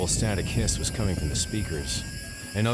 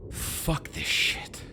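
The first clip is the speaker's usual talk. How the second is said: fed-up mutter; 10 semitones higher, much slower than usual. A narrator's reading. Fed up after the scare.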